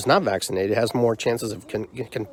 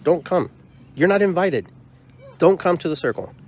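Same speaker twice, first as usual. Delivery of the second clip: upset telling off; 5 semitones higher than usual. Real, not acted. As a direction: tell the sender flat out they're not welcome. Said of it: "I'm sorry that I'm upset".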